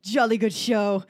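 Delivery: put-on slow, loud British commentator accent; ping pong commentator. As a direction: drawl it like a posh British announcer. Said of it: "what is this accent that's going on".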